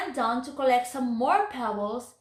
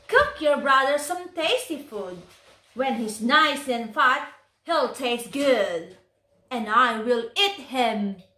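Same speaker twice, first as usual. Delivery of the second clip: louder, menacing relish; gloating witch; 4 dB louder than usual. Acted. Witch telling Gretel her plan, gloating. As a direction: savor the threat like a hungry witch.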